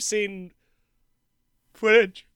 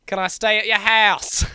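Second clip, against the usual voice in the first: put-on Australian accent; 5 semitones higher, 5 dB louder than usual. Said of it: "mine shifts between".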